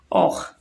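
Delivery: "or" said on its own as a short, low, isolated syllable; isolated syllable demo; syllable said alone. Shown as a demonstration. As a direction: drop the pitch and give just "or". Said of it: "a sílaba or".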